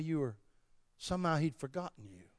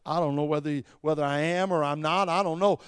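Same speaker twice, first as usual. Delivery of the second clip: acted bewilderment, getting louder and higher; troubled churchgoer; 4 semitones higher, 9 dB louder than usual. Churchgoer telling the preacher of confusion, increasingly worked up. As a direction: play an unsure believer building to a loud protest. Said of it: "You say, "Preacher, I tell you".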